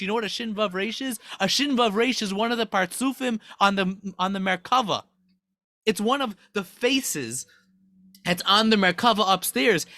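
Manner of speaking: acted indignation fading to appalled disbelief; mock outraged protest. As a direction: imitate scandalized angels objecting. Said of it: "they start screaming".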